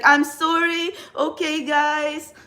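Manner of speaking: slow, drawn-out mock apology; her old awkward on-camera self. Tarot reader mimicking her clumsy early camera talk, slow and awkward. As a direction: imitate a hesitant beginner fumbling on camera. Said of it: "the intonation was so, it's so bad".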